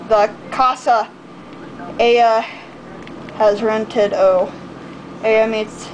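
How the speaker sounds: mock Spanish, slow and halting; reading a foreign language. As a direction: read it in broken Spanish. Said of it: "I'm gonna try to read it in Spanish".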